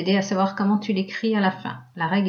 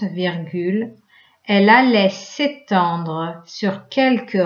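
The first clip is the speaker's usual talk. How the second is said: rereading aloud. Shown as a demonstration. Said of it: "Je te la relis une fois".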